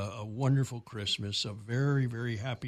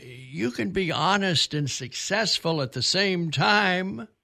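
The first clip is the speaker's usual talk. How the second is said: loud, raised, high-pitched Georgia drawl; 6 semitones higher, 6 dB louder than usual. Quoting the Chick-fil-A founder speaking to a group of youngsters, Truett Cathy Georgia drawl. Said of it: "in a Georgia drawl".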